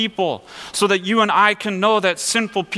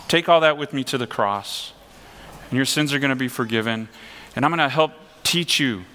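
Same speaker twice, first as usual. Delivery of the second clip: tender voice of Jesus; 4 semitones lower than usual. Retold or imitated. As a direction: speak like a loving friend forgiving him. Voices Jesus speaking to Peter.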